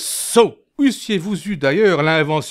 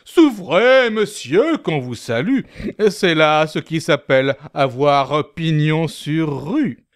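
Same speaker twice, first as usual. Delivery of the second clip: respectful. Acted.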